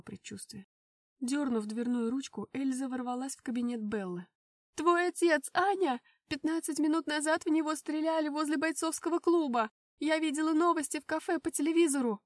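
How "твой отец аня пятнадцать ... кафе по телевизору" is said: loud, high alarmed outburst; panicked. Acted. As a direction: blurt the terrible news breathlessly. Эльза в панике сообщает новость. (испуганно, громко)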